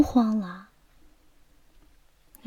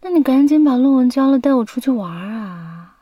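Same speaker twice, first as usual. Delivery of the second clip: louder, quick nagging plea; eager urging; 2 semitones higher, 4 dB louder than usual. Acted. Girlfriend urging boyfriend to finish his paper, eagerly nagging. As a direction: hurry them along in one fast rush.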